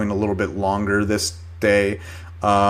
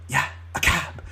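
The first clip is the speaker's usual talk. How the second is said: softer, matter-of-fact retold reply; deadpan confirmation; 2 semitones higher, 6 dB quieter than usual. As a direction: confirm it quietly, as if obvious. His deadpan confirming answer to her.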